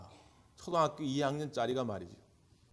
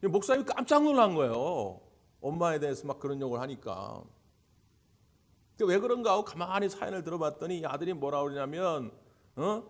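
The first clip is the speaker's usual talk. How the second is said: usual speaking voice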